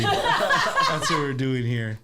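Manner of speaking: laughing through the words; said while chuckling. Real, not acted. Laughing after a joke.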